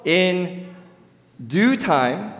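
pause, then hit due; "due" stressed high after a pause. Shown as a demonstration. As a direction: pause before a lifted due. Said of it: "what do you say to yourself?".

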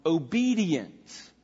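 usual speaking voice

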